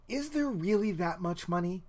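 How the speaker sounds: mock amazement; incredulous. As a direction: question it as if you can't believe it. Acted reaction to film scene.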